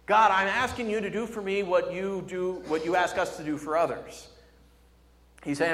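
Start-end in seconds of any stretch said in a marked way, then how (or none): 0.1-4.3 higher, emphatic request; earnest appeal. Acted. Preacher voicing David asking God for favor, earnest appeal. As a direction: put a mild plea into it. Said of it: "he's asking God".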